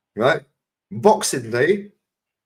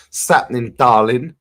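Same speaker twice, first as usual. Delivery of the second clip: dad's chat-up line; 5 dB louder, slower than usual. Retold or imitated. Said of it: "I just hear Rashid's voice".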